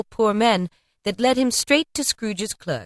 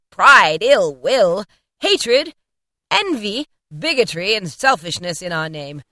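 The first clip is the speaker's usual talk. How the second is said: loud stern spirit listing sins; spirit rebuking; 3 dB louder than usual. Acted. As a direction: denounce each vice with weight. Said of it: "returned the spirit".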